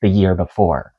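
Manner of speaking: measured news article reading. Acted. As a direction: read it like a news report. Reads news article aloud.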